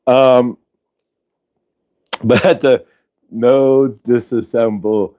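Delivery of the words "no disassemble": slow, drawn-out robot plea; a hint of movie robot; Johnny Five. Quoting the robot from Short Circuit, slow light mimicry. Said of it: "way too much Johnny Five".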